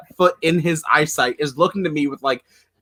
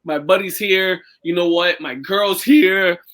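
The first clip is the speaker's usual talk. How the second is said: stalling for words. Retold or imitated. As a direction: stretch each item while inventing the next. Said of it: "thinking of what to say".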